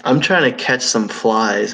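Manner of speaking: talking with tongue out; words slurred round a stuck-out tongue; tongue sticking out. Real, not acted. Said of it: "My tongue is out".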